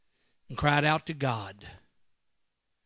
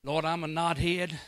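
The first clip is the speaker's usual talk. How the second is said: humble pleading prayer. Retold or imitated. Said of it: "and say".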